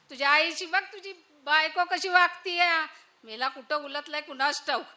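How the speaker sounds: put-on loud, complaining old village woman; wailing mother-in-law. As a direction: cry out to her son in mock outrage. Mother-in-law wails to son. (तक्रार करणारी सासू)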